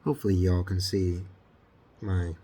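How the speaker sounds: talking around a paintbrush in the mouth; muffled by a paintbrush held in the teeth. Real, not acted. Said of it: "I have the paintbrush in my mouth".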